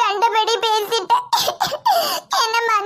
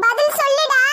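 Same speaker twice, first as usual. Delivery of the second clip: insist, harder this time; angrier demand; 4 semitones higher than usual. Acted. Uncle presses the silent groom, angrier. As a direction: stress on பதில், pressing hard for the answer.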